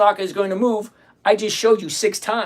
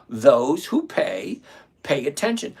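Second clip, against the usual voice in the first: slow, lower, leaning on "who"; slow emphatic repeat; 5 semitones lower, slower than usual. Shown as a demonstration. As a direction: drag it out so it sinks in.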